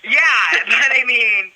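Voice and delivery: loud laugh breaking into words; laughing aloud at the contrast; laughing shout. Real, not acted. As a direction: burst out laughing mid-sentence. Laughing outburst.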